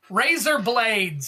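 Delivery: slow, drawn-out Australian razor blades; Australian accent. Retold or imitated. Streamer mimicking Australian card name for chat, drawn out slowly. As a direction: say Razor blades so it sounds like rise up lights. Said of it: "Sounds like rise up lights".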